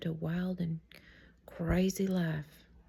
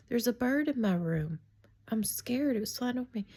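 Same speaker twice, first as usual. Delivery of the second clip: higher, mildly scared retelling; scared child pleading; 4 semitones higher than usual. Retold or imitated. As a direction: plead to mama as a frightened kid, lightly. Retelling scared child telling mother.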